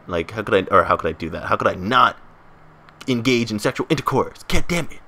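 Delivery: frustrated teen boy, lightly voiced; imitating his prepubescent voice. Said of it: "my prepubescent voice".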